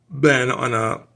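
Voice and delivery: speaking through a burp; words caught on a burp. Real, not acted. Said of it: "excuse me, oh, I'm burping".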